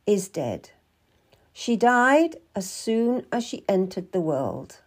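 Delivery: grave, measured midwife with slowed phrase endings; lightly voiced solemn midwife. Midwife tells girl the Queen's daughter died, solemn. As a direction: break sad news with weighty pauses. Story figure explains a death.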